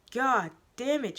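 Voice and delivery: loud, high, slow scream. Acted. The teacher screaming in frustration. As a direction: let it rip. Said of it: "I scream".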